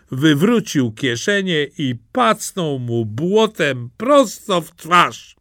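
ordinary delivery

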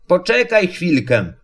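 ordinary delivery

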